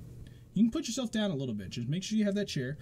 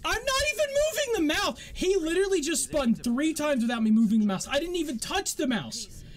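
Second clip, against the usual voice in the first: angry yelling; 7 semitones higher than usual. Real, not acted. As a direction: yell in disbelief at the game. Raging at the game ignoring input.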